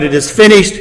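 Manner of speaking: a touch of victory, held at a fuller level; lightly voiced triumph, not a shout; mild triumphant cry. Christ crying out at the cross, mildly triumphant. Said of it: "has cried out triumphantly, victoriously".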